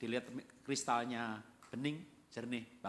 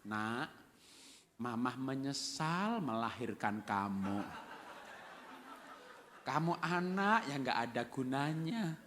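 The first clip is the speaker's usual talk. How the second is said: mock gentle; slower than usual. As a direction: coo it tenderly, like a loving mother. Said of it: "dengan lemah lembut berkata-kata".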